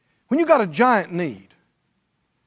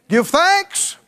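"Give thanks" sung out higher, rising on "thanks"; rising exultant call; 9 semitones higher than usual. Shown as a demonstration. Preacher builds the crowd to praise, "Give thanks" rising high and exultant.

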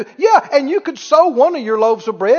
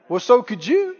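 normal talking voice

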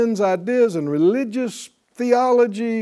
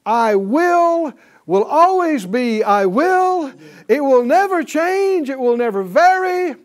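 fervent preaching; 7 semitones higher, 4 dB louder than usual. Real, not acted. Preaching at full force climax.

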